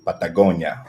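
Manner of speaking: put-on a light, playful Spanish accent on Patagonia. Guest shows off his Spanish accent naming his beer, lightly Spanish. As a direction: say Patagonia the Spanish way, half joking. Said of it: "Let's try to use my Spanish accent".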